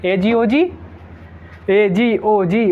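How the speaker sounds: a lightly voiced, eager wife calling; imitating an excited wife. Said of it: "उत्साहित होके क्या कहना".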